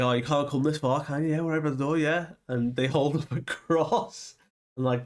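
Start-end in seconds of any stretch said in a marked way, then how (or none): 0.0-2.3 high, fast mocking kid voice; taunting kids. Kids mocking Bonnie as a vampire, high taunting voice. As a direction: jeer it like a bratty kid.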